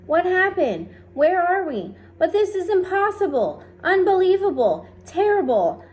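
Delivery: very high, loud rising panic; horrified disbelief; shocked alarm. A narrator's reading. Ladybug discovers they are adrift, panicked cry. Ladybug sees they're at sea.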